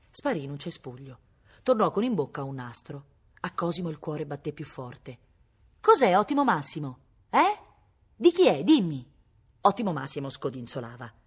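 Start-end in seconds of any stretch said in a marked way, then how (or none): 5.8-9.1 loud, high, urgent questions to a dog; excited, heart-racing interrogation; eager questioning. A narrator's reading. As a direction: press the dog for an answer. Agitated boy questions his dog.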